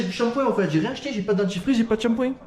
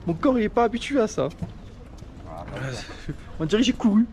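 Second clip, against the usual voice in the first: short of breath, talking between gasps; winded from the thin mountain air; breathless at high altitude; 3 semitones higher than usual. Real, not acted. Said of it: "je suis essoufflé".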